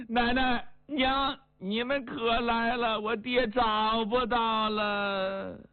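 a mild tearful plea, slowing at the end. Acted. Kneeling grandson tells grandma and mother, mildly tearful. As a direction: tell them the bad news close to tears. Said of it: "眼泪先下来了".

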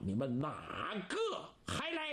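mock the crowd, laughing; laughing taunt. Taunting the crowd after kill.

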